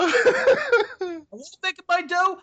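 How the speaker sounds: high, slow gushing over the dough; dreamy pizza-love gush. Acted. Host gushing to his co-host about his dough, high and slow. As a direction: savour every word like a lover.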